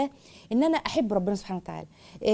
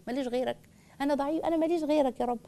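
humble pleading prayer; 3 semitones higher, 4 dB quieter than usual. Shown as a demonstration. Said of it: "اوصيكي بالذله والانكسار".

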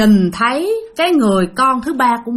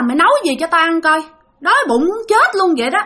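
higher, demanding voice of the ghost sister; rough hungry spirit ordering food, pitched up; possessed changed voice; 4 semitones higher than usual. Retold or imitated. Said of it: "Tự nhiên đổi giọng điệu, không còn cái giọng của chị Tư nữa".

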